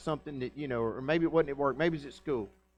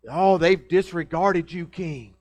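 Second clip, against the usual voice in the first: slow, louder mock outrage; dramatic tattling; 7 dB louder, slower than usual. Chaldeans whining to the king about disobedience. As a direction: ham up the complaint to the king. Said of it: "Can't you just hear it in their voice?".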